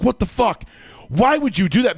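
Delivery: angry yell. Retold or imitated. Demanding answers from his wife in the dream, angry. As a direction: push the outrage up high.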